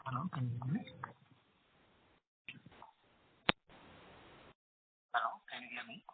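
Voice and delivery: very faint, distant phone voice; speaking far too softly into the phone; barely audible. Real, not acted. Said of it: "your voice is very low".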